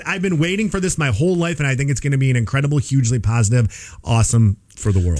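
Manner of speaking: a hint of a put-on accent, gushing quote; lightly mock the CEO's accent, excited; playful understated accented quote; Sam Altman accent. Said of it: "I gave him that accent".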